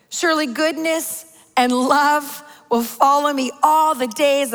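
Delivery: slow, measured psalm reading; scripture reading. Acted. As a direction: read it reverently with long pauses between phrases. Reads the psalm aloud.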